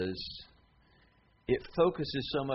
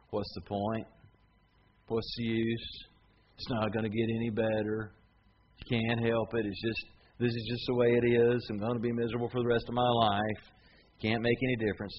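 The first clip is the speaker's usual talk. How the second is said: cynic's voice. Acted. Preacher lightly voices the cynic, gloomy and resigned. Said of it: "Cynic just poisons everything by saying".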